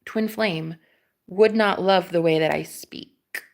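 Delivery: put-on British accent, deliberate delivery; measured British-accented objection. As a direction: speak in a playful British accent. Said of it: "my British accent too".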